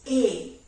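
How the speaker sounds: A drawn out with the jaw dropped; stretched A. Shown as a demonstration. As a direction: let the A open long and low. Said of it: "when you speak A, this has to go".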